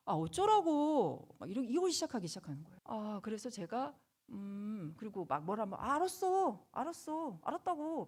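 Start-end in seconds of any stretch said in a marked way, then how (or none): 0.1-1.3 high, loud, drawn-out sulky whine; rude teen talk-back. Retold or imitated. Mother imitating her teen's rude backtalk, drawn out and high. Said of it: "아이의 버릇없는 말투예요". 5.8-8.1 high, loud, exasperated brush-off; annoyed teen. Retold or imitated. Mother mimicking her son brushing her off, high and loud. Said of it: "아이의 버릇없는 말투예요".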